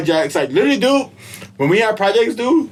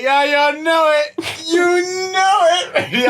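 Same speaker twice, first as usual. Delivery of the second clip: high, proud mock cheer; excited; 10 semitones higher, slower than usual. Answering the teacher about extra points, excited and high. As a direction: brag like the star of the class. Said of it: "I was so excited".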